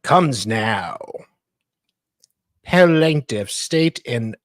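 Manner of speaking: mock-grand legal reading; dramatic legal reading. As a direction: read it like a solemn petition. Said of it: "our dramatic reader".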